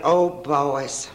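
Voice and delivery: lightly mock-pious, drawn-out oh; a hint of self-righteous piety; sanctimonious. To the boys at the clubhouse, mildly sanctimonious. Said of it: "in a very sanctimonious".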